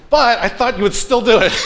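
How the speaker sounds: sulky Jonah. Retold or imitated. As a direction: complain like a sulking kid who wanted the fireworks. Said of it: "how Jonah is talking with God".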